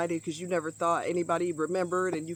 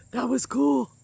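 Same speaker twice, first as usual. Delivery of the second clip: louder and higher, delighted; thrilled; 5 semitones higher, 6 dB louder, slower than usual. Real, not acted. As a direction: burst out with delight. Thrilled by the hummingbird.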